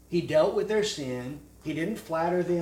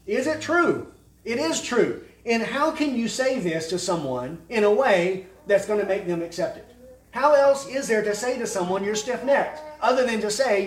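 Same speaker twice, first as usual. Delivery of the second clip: raised, louder preacher's voice; forceful preaching; 7 semitones higher, 7 dB louder than usual. Real, not acted. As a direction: drive the argument home, high and loud. Preacher presses the argument at full force.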